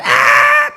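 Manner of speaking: sudden very high loud yelp; short high frightened cry; child's shriek. Retold or imitated. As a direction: squeal like a kid pulled into the water. Child cries out when dragged.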